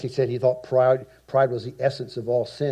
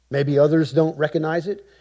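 ordinary delivery

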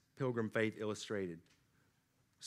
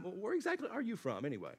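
lightly voiced curious neighbor, higher and quick; acted puzzled questioner; 6 semitones higher, 4 dB quieter, faster than usual. Neighbors wondering about a Christian's origins, lightly acted puzzled question. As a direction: ask it quickly, pitched up, as a mock onlooker.

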